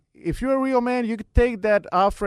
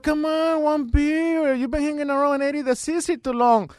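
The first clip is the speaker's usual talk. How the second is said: coaxing buddy; 6 semitones higher than usual. Retold or imitated. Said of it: "And he's like".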